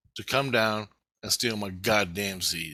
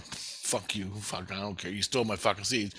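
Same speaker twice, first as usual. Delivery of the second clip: softer, muttered brush-off; dismissive retort; 2 semitones lower, 6 dB quieter than usual. Retold or imitated. Intruder brushes off scientist's protest, quiet dismissive retort.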